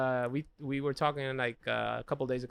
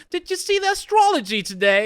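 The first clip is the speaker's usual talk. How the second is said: higher, louder, airy girlfriend impression; mock girlfriend voice; 6 dB louder than usual. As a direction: play the ditzy girlfriend.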